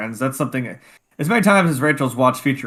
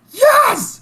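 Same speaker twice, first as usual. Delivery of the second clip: high, loud imitated cheer; hammed-up jubilant yell; triumphant yell; 9 dB louder than usual. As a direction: shout it like a secret victory celebration. Imitating celebration heard through door.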